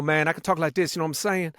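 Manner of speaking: lightly voiced Detroit rapper patter; casual street-style rapper talk; hint of a rapper impression. Shown as a demonstration. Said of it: "And that's Eminem".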